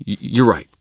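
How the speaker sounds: stumble, then hastily concede; flustered stammer. Acted. Scolded wizard stammers agreement.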